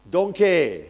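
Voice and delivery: donkey punched out loud to rouse the room; wake-up word. Shown as a demonstration. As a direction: throw donkey out to jolt the sleepers awake. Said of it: "So if I throw in the word donkey now and then".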